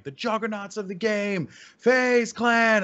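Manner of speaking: high, booming announcer call; arena announcer. Retold or imitated. Host introducing FaZe Clan to the arena crowd, big announcer call. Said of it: "I nailed it. It was like".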